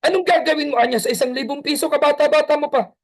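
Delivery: mock-angry father scolding. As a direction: snap at the kid in exasperation. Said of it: "napataas ng boses".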